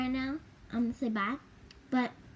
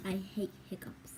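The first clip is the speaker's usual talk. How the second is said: whispered complaint; whispering; 3 semitones lower, 7 dB quieter than usual. Real, not acted. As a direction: whisper it, fed up.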